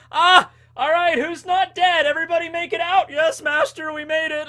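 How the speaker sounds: high shouted cartoon villain voice; hammy high-pitched mad scientist; acting out Caesar. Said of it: "and he's like".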